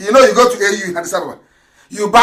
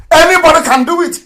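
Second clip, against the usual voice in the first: laughing; 7 semitones higher, 3 dB louder, faster than usual. Real, not acted. Laughing at how easy faking is.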